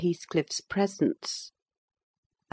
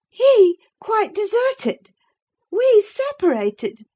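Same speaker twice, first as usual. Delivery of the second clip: slow, much higher, outraged disbelief at "deserted"; indignant; 6 dB louder, slower than usual. Acted. Catherine rejecting Nelly's warning, indignant and slow. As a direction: fling the words back at her, offended. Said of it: "with an accent of indignation".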